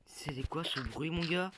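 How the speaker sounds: scared horror game streamer. Real, not acted. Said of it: "j'ai flippé".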